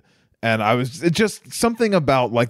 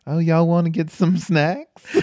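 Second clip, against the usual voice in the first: Zach Galifianakis's cousin; 3 semitones higher than usual. Retold or imitated. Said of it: "Zach Galifianakis's cousin character".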